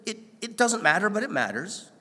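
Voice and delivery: lightly voiced God, pitched high and eager; God insisting kindly; a hint of an eager, reassuring God; God answering. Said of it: "he says".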